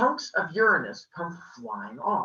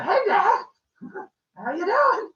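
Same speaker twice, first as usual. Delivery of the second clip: high, louder greeting with a sly laugh; creepy innocent greeting; 5 dB louder than usual. Acted. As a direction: play innocent with a giggle, pitched up. Son acting innocent with weapon.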